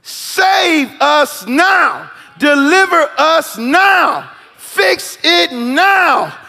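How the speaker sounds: slow, drawn-out shouted pleas; demanding cry. Retold or imitated. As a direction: plead like a crowd demanding help now. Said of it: "Hosanna meant".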